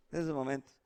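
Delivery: soft, low murmur of excuse; acted calm, hushed reassurance; tranquil mother. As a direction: play the patient mom, quietly making allowances. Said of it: "ella está tranquila".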